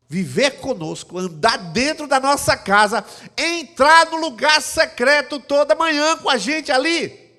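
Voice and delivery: high, loud, driving sermon voice; fervent preaching. Acted. Pastor preaching to the congregation with full force.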